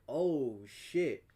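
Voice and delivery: understated short realization; mild retold surprise. Hearing about stolen packages, mild retold surprise. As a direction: react with a touch of dismay. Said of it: "I'm like".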